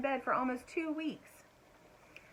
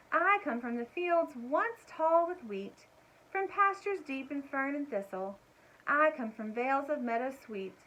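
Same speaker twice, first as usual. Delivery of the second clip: high, slow, lilting recital; sing-song the lines like a little poem; musical bird voice; 5 semitones higher than usual. A narrator's reading. Margalo introducing herself to Stuart, musical lilt. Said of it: "in a musical voice".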